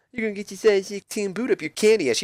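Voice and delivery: high, mocking sing-song parrot; mocking imitation. Jericho mocking The Rock's threat in a high voice. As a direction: throw his words back in a silly high voice. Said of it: "Jericho then mocks him".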